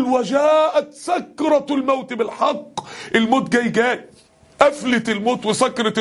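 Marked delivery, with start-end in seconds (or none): 0.0-2.8 raised, drawn-out verse delivery; crying-out recitation. Acted. Preacher voices the surah's cry to listeners, slow raised cry. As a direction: cry the verse out slowly, pitched up. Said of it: "سورة قاف بتصرخ بتقول".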